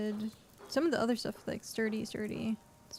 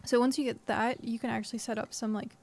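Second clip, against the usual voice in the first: talking through hiccups; interrupted by hiccups between words; hiccuping. Real, not acted. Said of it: "I'm hiccuping again".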